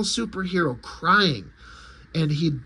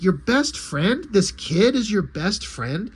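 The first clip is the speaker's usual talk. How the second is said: slow, drawn-out disbelieving question; incredulous; slower than usual. Acted. Superman learns a kid is the best friend, incredulous. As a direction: stretch it out in mild disbelief.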